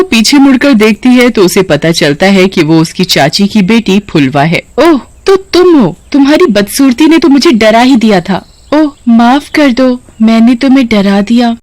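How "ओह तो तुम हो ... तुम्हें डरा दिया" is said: higher, sneering fake apology; mocking. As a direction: tease her cousin with false sorry. Sumita mocks her ugly cousin. (ऊँची आवाज़ में ताना मारती, झूठी माफ़ी)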